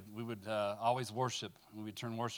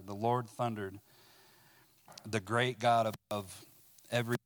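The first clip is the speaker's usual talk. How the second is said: fuller, louder reading voice with weight; scripture reading; 4 dB louder than usual. Acted. Preacher reading Psalm 18 to the room, in a proclaiming voice. Reads psalm aloud to congregation.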